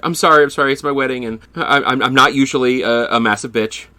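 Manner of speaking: a hint of a frazzled squirrelly bride; squeaky high-energy bride. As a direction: lightly imitate a squeaky bride apologising to the crowd. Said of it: "It's high energy, kinda squeaky".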